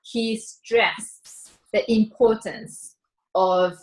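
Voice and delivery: spelled out slowly as a model sentence; teacher giving the class an example, slow and careful. Shown as a demonstration. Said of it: "something like".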